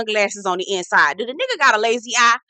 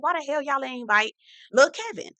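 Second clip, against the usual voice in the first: incredulous inner thought; 4 semitones higher, 4 dB quieter than usual. Retold or imitated. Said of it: "I'm thinking to myself".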